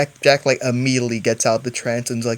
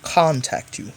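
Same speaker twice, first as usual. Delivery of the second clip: telepathic envoy. Acted. Player voices telepathic message to stranger.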